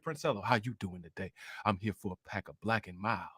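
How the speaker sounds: low, soft mock smooth talker; talking like Princella. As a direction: croon it low and quiet like a smooth player. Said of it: "talk to 'em like the way that Princella talked to 'em".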